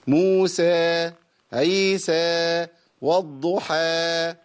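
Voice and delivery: long vowels chopped off abruptly; slow, then stop the voice dead on each final vowel; Musa, Eisa, Wadduha with the sound cut short. Shown as a demonstration. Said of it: "برضو الأداء حكم في الج".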